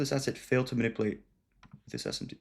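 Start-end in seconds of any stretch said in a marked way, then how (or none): 1.9-2.4 speaking through a hiccup; a hiccup breaks the words. Real, not acted. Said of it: "Okay, I'm hiccuping".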